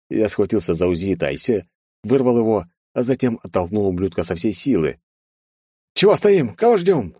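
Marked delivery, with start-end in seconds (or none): 6.0-7.1 very high, loud rallying cry; exclaim. Acted. Masashi shouts at the hesitating guards, loud and high. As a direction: rouse the guards into action. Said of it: "воскликнул Масаши".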